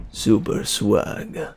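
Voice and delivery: slow breathy whisper; slow whispered "Super swag". Shown as a demonstration. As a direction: whisper it slowly like a secret. Whispered repeat.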